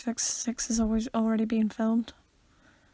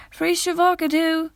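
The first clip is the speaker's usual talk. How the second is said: Vine quote voice; 6 semitones higher, 5 dB louder than usual. Retold or imitated. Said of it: "quote Vines".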